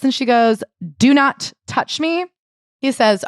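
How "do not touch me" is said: slow, icy, higher-pitched refusal; cold refusal. Retold or imitated. Wife refusing husband's help with bags, slow and icy. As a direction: freeze him out word by word.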